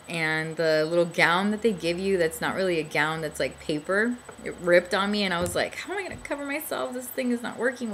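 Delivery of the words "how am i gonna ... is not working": flustered panic. Retold or imitated. Gown rips, panicked inner thought.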